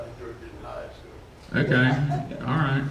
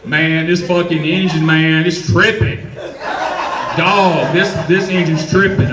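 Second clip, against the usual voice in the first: imitating the customer; 5 dB louder than usual. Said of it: "and he's like".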